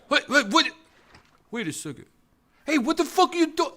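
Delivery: very high, flustered imitation; mock outrage rising to a high, rapid demand; startled scammer. Scammer caught off guard by the baiter, mock-flustered and high. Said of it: "And the guy goes".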